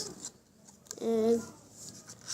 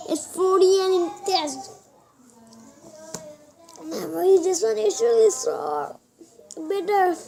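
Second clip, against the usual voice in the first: sarcastic disgust; 3 semitones higher than usual. Real, not acted. Mocking label after bad taste.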